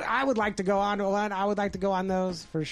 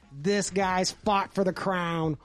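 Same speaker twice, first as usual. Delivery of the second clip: mocking announcer; much slower than usual. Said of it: "they're like".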